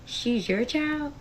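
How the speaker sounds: drawn-out, high-pitched disbelief; incredulous question. Retold or imitated. Mother questioning ex friend's claim on her child, incredulous.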